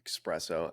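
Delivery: espresso pronounced "ex-PRESS-oh". Real, not acted. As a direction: slip an X into "Espresso". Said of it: "I put in an X".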